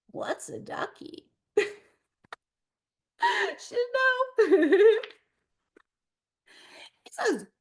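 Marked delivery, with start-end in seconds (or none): 0.1-1.3 1 whispered innocent. Acted. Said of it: "And Ducky says".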